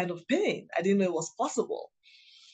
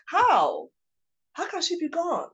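much higher pleading cry of disbelief; retold anguish; 9 semitones higher than usual. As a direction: beg the question in raw grief. Retold grief over mother's death.

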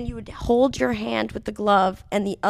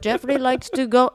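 louder mock Turkish accent; 3 semitones higher, 5 dB louder than usual. Turkish coworker proudly introducing a pigeon, lightly imitated accent. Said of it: "Do it, do it, the accent".

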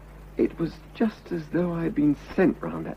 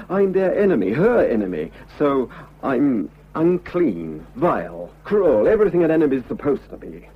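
bitter outburst; 3 semitones higher, 4 dB louder than usual. Acted. Husband venting bitterly to Grace about his wife's sect. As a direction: spit out each insult, slowing on unclean.

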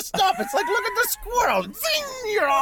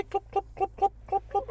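imitated hoofbeats; 8 dB quieter than usual. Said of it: "some horses clumping by".

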